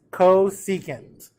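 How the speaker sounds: "Cosecant" stretched out slowly; slow choral cue on "Cosecant"; say-along demonstration. Shown as a demonstration. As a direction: lead the class slowly through "Cosecant". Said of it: "Say it with me, guys".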